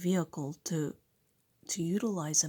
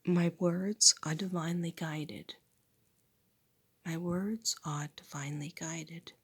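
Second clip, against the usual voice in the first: affirmation recital. Real, not acted. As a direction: recite each line like a vow. Repeats affirmation.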